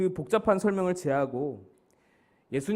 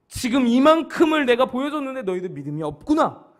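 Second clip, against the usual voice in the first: raised-pitch rebuke; Jesus; 6 semitones higher, 4 dB louder than usual. Acted. Jesus to disciples who saw his miracles, rebuking. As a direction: reproach them, pitched up and firm. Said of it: "이 말씀으로 꾸짖으시는 것입니다".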